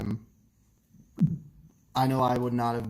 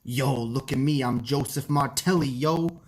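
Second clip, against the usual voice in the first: Joseph Martelli impression; 4 semitones higher, 4 dB louder than usual. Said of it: "How do you do a Joseph Martelli impression?".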